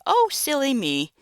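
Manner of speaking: playful oops; flustered witch laughing at herself; bubbly witch. Acted. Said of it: "the witch snaps out of her excitement".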